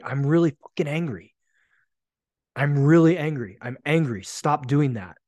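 firm demonstrated anger, emphatic; openly angry. Acted. Man with permission to say he's angry, firm and emphatic. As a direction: state the anger forcefully without screaming. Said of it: "Now I get to say".

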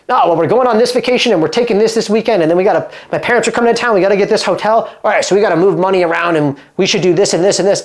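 half-joking imitation of people planning their money; mock budget-planner voice. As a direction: rattle off vacation plans like a busy parent juggling bills. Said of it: "I don't know why I'm doing this voice".

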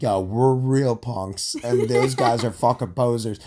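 slow, drawn-out cocky bro; skit punk voice. Pretend. Host acts out a skit of colonists, slow swaggering bro. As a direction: swagger through the boast. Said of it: "Let's do a skit".

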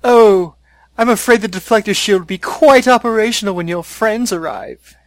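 high, loud gloating evil voice; Emperor voice. Retold or imitated. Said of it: "my favorite one is the".

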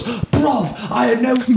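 high, put-on British accent apologizing; British bloke. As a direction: play the drunk Londoner saying sorry. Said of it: "He goes".

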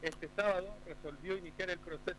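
faint, distant phone line; phone held away. Real, not acted. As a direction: far from the phone mic. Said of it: "su señal sale muy débil".

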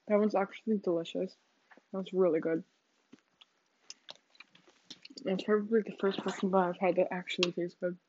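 talking through a mouthful; chewing while talking. Real, not acted. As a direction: speak while chewing food. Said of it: "sorry if you can hear me eating".

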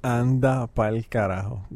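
amazed curse. Real, not acted. Host reacts to listener story.

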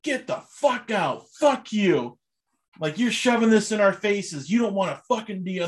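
mock indignant telling-off, not really shouted; Kevin O'Leary outburst. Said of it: "And Kevin O'Leary goes".

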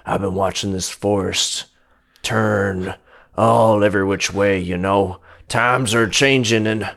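a wise elder sharing an ominous tale; old monkey James. Acted. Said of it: "He says".

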